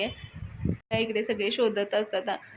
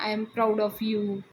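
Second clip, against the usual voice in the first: put-on very slow, drunken drawn-out praise; tipsy Anna praising his son, slurred and slow; drunk father; much slower than usual. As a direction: drag it out like a drunk proud father.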